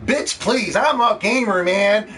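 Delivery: sassy fanboy shrugging off the criticism; mock gamer excuse. Gamers excusing their console purchase, mock sassy. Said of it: "they're already making the excuses now".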